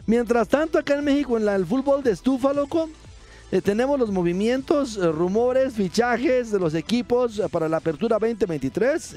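high comic character voice. Acted. (voz de personaje cómico aguda)

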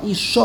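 Isha with weight on its last syllable, sha; stress on the end. Shown as a demonstration. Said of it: "the emphasis on the end of the word".

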